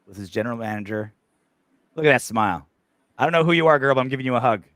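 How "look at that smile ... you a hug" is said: excited cheer. Real, not acted. Cheering at video hug.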